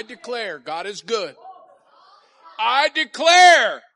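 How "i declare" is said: very slow, loud, high declaration; slow declaring shout. Shown as a demonstration. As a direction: stretch each word for the crowd. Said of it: "about three quarters of you said it".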